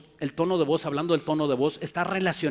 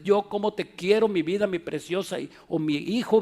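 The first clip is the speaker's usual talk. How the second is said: tender love words; 2 semitones higher than usual. Retold or imitated. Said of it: "telling children you love them".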